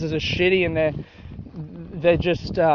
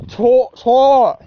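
imitating a five-year-old, higher and louder; squeaky kid saying his name; little kid's country voice; 6 semitones higher, 6 dB louder than usual. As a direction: mimic a little country boy. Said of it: "that was his country voice".

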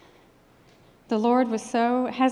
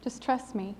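softer, hushed quote of the Lord; gentle divine voice; 7 dB quieter than usual. Retold or imitated. The Lord reassuring her heart about her mom, softly. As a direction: drop the volume, as if speaking to the heart. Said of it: "the Lord just spoke to my heart".

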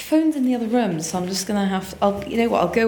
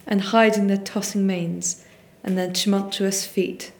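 poem reading. Acted. Reads a Yeats poem.

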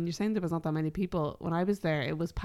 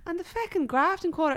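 mock baffled; 9 semitones higher than usual. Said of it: "And I was like".

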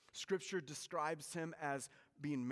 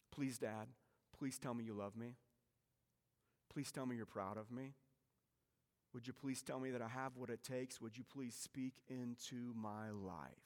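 softer, lower heartfelt plea; soft pleading son; 3 semitones lower, 6 dB quieter than usual. Retold or imitated. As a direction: beg quietly for a father's words. Esau's plea voiced in sermon.

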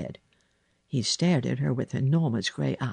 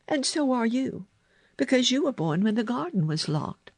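put-on high girl's voice, matter-of-fact; Mary; 9 semitones higher than usual. A narrator's reading. Girl telling the boy about the garden, high and certain. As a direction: explain it in a raised girl's voice.

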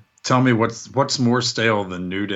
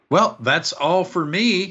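mock interviewer; 8 semitones higher, slower than usual. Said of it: "She threw back this week with".

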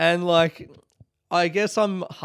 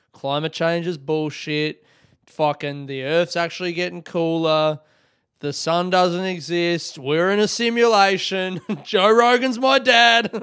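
mock conspiracy bro; 2 semitones higher, 5 dB louder than usual.

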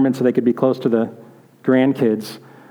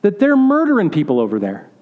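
worried grandma; 3 semitones higher than usual. Retold or imitated. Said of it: "she's like".

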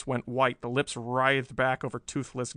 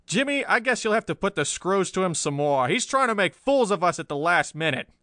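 loud, raised-pitch boss voice; irate newspaper chief; 6 semitones higher, 5 dB louder than usual. A narrator's reading. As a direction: order more pressure on the prisoner, exasperated. Chief's outburst in story.

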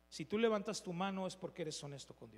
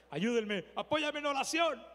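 loud, raised-pitch cry for help; urgent plea; 6 semitones higher, 6 dB louder than usual. Retold or imitated. Preacher retells begging his friends to pray, urgent loud plea. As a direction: call out a retold plea for backup.

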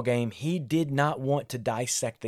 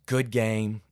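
gentle dad greeting; 4 semitones lower than usual. Retold or imitated. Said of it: "I would say".

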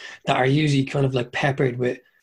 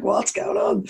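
much higher, bewildered squeak; mock the stunned audience member; stunned punter reacting to the screaming comic; baffled; slower than usual. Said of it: "you're like".

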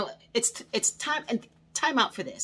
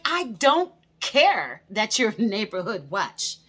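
laughing retort; 6 dB louder, slower than usual. Retold or imitated.

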